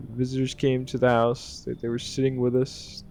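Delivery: a hint of a scared little girl; half-hearted little girl voice. Little girl telling the player her father died, lightly voiced. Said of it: "I can't do a little girl voice".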